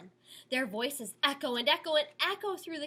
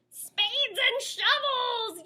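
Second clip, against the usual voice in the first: yelp; 12 semitones higher, 5 dB louder, slower than usual. A narrator's reading. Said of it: "yelps Odious".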